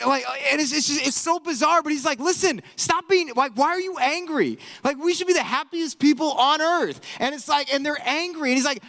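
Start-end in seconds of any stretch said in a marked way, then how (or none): 2.2-7.0 higher-pitched, urgent mock scolding; exasperated exhortation. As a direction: plead with them to snap out of it. Voices biblical writer scolding angry believers.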